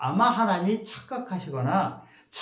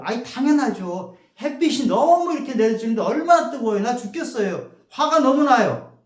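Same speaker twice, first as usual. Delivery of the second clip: rising fast indignant complaint, louder by the end; Jonah complaining angrily; 4 semitones higher, 4 dB louder than usual. Retold or imitated. Jonah snapping back at God about the scorching sun, indignant complaint. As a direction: whine and protest, building to an outburst. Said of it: "요나가 그래요".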